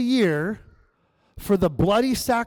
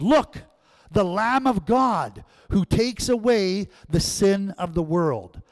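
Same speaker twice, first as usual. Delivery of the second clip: proclaiming; 3 semitones higher, slower than usual. Retold or imitated. Preacher reads John's exclamation.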